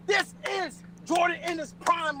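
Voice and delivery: shouting. Acted. Raging boast in brawl.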